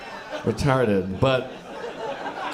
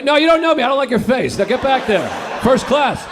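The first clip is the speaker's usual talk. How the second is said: snooty put-down; 9 semitones higher, 5 dB louder than usual. Pretend. Imagined rude first-class passenger.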